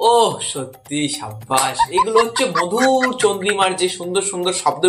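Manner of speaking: slow, drawn-out mock praise; sarcastic praise. Real, not acted. YouTuber mocking the abusive clip, slow sarcastic praise. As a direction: drag out the fake compliment.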